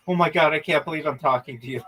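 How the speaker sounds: fast, gushing imitation of an excited fan; mock fangirling. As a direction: rattle it off like a starstruck fan, lightly mocked. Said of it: "like, fangirling".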